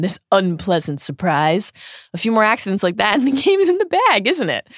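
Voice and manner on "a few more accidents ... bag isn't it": fast, much higher, bright false cheer; forced cheer. Acted. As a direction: talk fast to cover the shock with cheer. Harry quickly covering a surprise.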